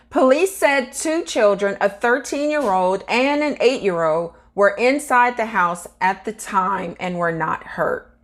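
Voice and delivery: measured news-article read, slightly lifted pitch. Acted. Vlogger reads crash report to viewers, measured news read. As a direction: read the report out with deliberate emphasis.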